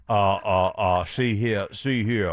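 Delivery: lightly voiced blustery Southern rooster; Foghorn Leghorn. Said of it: "now you've morphed into Foghorn Leghorn".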